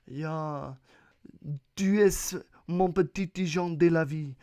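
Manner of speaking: French accent. Shown as a demonstration. Podcaster comparing French to German, showy French accent. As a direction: flirt in mock French. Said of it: "talk in a French accent".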